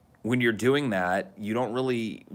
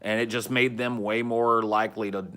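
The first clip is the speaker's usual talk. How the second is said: lilting, lightly raised country accent; 2 semitones higher than usual. Shown as a demonstration. Recalling winning over the downstairs neighbors, country accent. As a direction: lilt back into a down-home country accent. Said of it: "lilt back into the little country accent".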